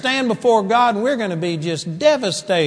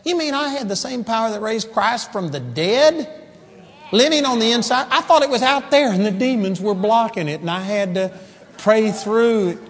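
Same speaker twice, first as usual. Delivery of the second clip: shocked disbelief; 3 semitones higher than usual. Acted. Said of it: "When we stand before the Lord".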